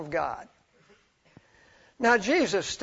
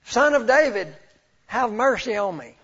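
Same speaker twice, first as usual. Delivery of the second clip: raised, louder beggar's plea; crying out; 4 semitones higher, 6 dB louder than usual. Retold or imitated. Blind Bartimaeus calling to Jesus, crying out. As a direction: imitate a man calling out for mercy. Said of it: "blind Bartimaeus begins to cry out".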